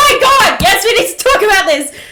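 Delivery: high, loud delighted shriek; excited squeal. Real, not acted. Fan hearing her favourite ship mentioned, high excited shout. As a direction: burst out thrilled. Thrilled reaction to favorite topic.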